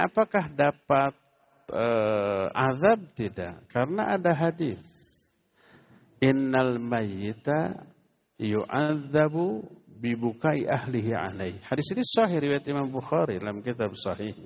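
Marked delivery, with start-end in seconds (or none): 6.2-11.6 hadith recitation. Acted. Arabic hadith quoted.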